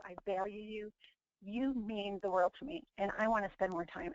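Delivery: understated tenderness toward a daughter; tender reassurance. Retold or imitated. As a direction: retell a mother's heartfelt reassurance softly. Tender talk to daughter retold.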